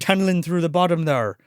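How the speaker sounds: lightly voiced Irish groundskeeper; mock Irish accent. Groundskeeper greeting the bereaved folks, light Irish accent. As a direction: put on a light Irish lilt. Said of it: "he's doing the Irish accent".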